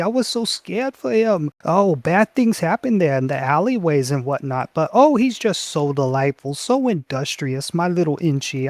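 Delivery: high, doting motherly gush; goblin mother voice. Acted. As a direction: fuss over her son like a proud mom. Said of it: "and she says".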